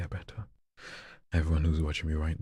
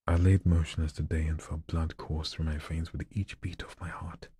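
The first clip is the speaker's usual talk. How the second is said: building then stopping. Shown as a demonstration. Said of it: "read it this way, like it's building up".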